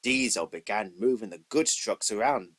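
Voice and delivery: ordinary delivery, nothing marked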